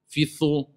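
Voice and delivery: thu with a voiceless TH; wrong consonant. Shown as a demonstration. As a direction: mispronounce it as fi thu, losing the voiced DH. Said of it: "Non, fi dhu".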